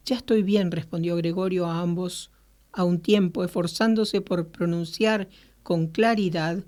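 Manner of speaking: measured audiobook-style reading; story narration. A narrator's reading. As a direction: read the story aloud in clear phrases. Reads Kafka's story aloud.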